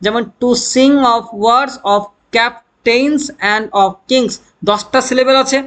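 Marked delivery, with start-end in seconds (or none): 0.4-4.3 unstressed "to", stressed "sing", alternating through "kings"; iambic stress. Shown as a demonstration. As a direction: slowly beat out "to sing of words" weak-strong. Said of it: "সিলেবেলটা stress হলে তাকে বলে".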